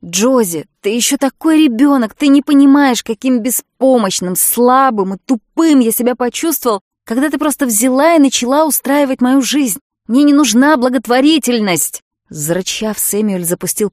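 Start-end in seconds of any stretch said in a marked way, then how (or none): 0.0-12.0 loud, higher furious rant; angry shout. A narrator's reading. Samuel rages at Josie for running his life, shouting. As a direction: yell it out in wounded pride.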